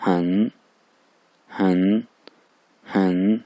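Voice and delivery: हन drawn out, dipping then rising; lengthened third tone. Shown as a demonstration. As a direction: stretch हन and scoop the pitch. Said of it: "इसको थोड़ा सा लंबा करेंगे".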